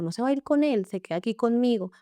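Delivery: a stranger firmly taking her side; protective command. Retold or imitated. Retold Ulises protecting her. (orden protectora, aguda y fuerte)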